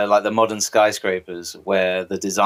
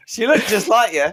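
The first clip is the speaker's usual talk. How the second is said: Huey voice; 13 semitones higher than usual. Retold or imitated. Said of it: "Huey's there like".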